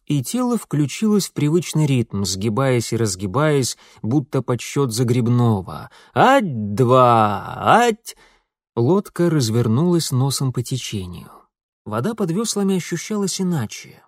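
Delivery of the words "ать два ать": sharp rowing count, louder; rhythmic oarsman's count; counting the stroke. Acted. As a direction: call out the oar stroke.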